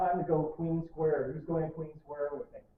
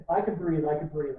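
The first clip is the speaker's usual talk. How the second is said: louder, emphatic "I can breathe"; relieved exclamation; 6 dB louder than usual. Retold or imitated. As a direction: proclaim it, glad to be alive. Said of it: "collapses on the ground and goes".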